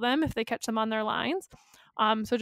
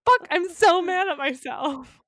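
frustrated outburst; 4 semitones higher than usual. Real, not acted. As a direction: vent at your own missed guess. Missed obvious guess.

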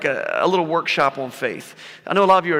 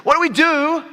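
imitating the father; 11 semitones higher, 4 dB louder than usual. Father voiced, pleading to Jesus.

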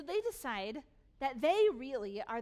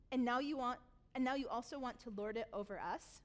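mocking whine. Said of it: "Doesn't that just make your blood boil".

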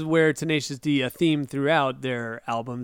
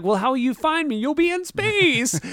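high whiny protest, last word stretched; hammed-up plaintive cry; mock wail; 10 semitones higher than usual. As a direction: imitate a forlorn bandmate, climbing high. Acts Kyle's protest to Jack.

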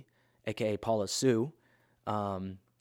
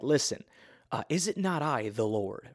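smart aleck God; 2 semitones higher than usual. Retold or imitated. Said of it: "kinda like a smart aleck in that moment".

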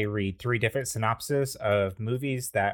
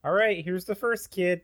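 1 alien voice; 9 semitones higher than usual. Acted. Alien dad passing phone.

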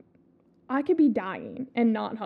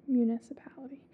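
whispered; 4 dB quieter than usual. Real, not acted. Repeating the word quietly.

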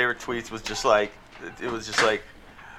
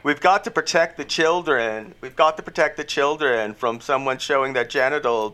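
mock-earnest alarm, lightly raised pitch; mocking moral panic; 3 semitones higher than usual. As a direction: imitate a preachy scold. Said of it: "they're always like".

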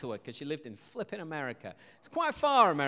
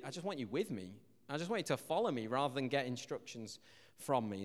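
gentle reply; 3 semitones lower, 5 dB quieter than usual. Acted. Voicing God's gentle answer.

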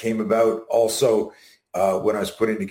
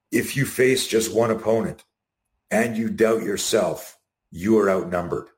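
slow quote. Shown as a demonstration. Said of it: "his greatest quote".

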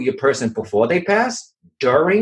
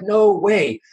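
refusal; 8 semitones higher than usual. Retold or imitated. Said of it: "I was like".

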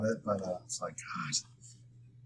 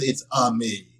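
put-on Mario accent; 4 dB louder, slower than usual. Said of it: "And he says".

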